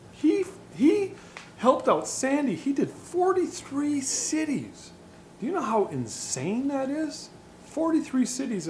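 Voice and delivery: high-pitched, incredulous excitement; real amazement. Real, not acted. Telling viewers about a forty-three city tour, amazed. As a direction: pitch leaps up in disbelief.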